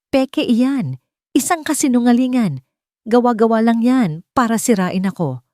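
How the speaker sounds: high, desperate denial, voice breaking; a cornered woman pleading, close to breaking; desperate cracking voice. A narrator's reading. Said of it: "ang boses niya ay basag at desperado". (basag at desperadong boses)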